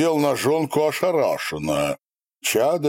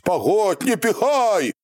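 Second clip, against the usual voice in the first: shouting; 11 semitones higher than usual. A narrator's reading. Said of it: "кричал на удерживающего его казака".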